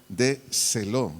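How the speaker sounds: "de celo" said slowly, stressed on the E of "celo"; Greek word pronunciation. Shown as a demonstration. Teacher shows a Greek word, "de celo" stressed on the E. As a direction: sound out "de celo" with the accent on the E. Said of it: "acento en la E".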